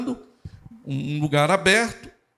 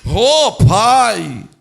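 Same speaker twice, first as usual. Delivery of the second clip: loud, higher, drawn-out groaning call; mock religious praying; 4 semitones higher, 8 dB louder than usual. Christians entering God's presence, hammed-up agonised prayer call. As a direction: overwrought pious cry, as if straining. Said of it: "entram assim na presença de Deus".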